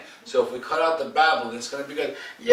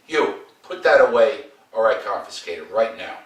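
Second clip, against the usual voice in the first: stern teacher; 5 dB louder than usual. Shown as a demonstration. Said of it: "So that's a growl".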